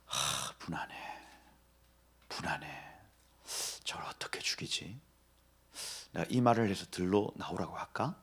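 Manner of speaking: Cain plotting in a low whisper; scheming whisper. Retold or imitated. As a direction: whisper his plot to himself. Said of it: "가인의 마음이 계속해서".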